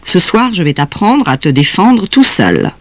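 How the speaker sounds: stern, unyielding acted tone; implacable. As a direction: lecture the child, allowing no appeal. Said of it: "dit-elle d'une voix implacable".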